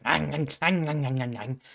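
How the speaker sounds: mock feral gnawing noises; repeated nasal "ang" biting noises; imitated feral chomping. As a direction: play at chomping like a caged creature. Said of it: "she's just like".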